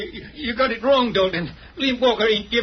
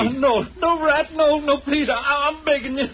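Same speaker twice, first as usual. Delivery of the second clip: desperate begging; 4 semitones higher than usual. Acted. Begging the rat.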